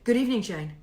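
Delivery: restrained formal greeting; mock-formal exchange of good evenings. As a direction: greet them with stiff formality. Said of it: "Very formal".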